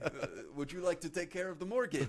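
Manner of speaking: high, mocking Arab-accented dad; sarcastic dad in thick Arab accent. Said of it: "he has a very thick Arab accent".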